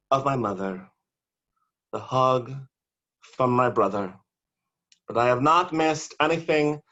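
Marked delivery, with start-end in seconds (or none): 5.1-6.8 build to shout. Acted. Poet bursting out the punchline to the audience, building to a shout. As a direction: save it all for the final word.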